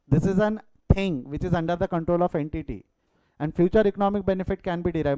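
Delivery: slow, deliberate definition; slow dictation. Shown as a demonstration. Teacher dictating why the register is an asset, slow and clear. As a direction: lay out each word for the notes. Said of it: "Definition समझो बेटा".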